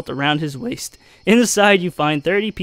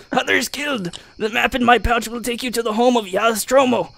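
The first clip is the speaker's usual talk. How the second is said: lightly voiced dwarf; 3 semitones higher than usual. Dying dwarf's plea.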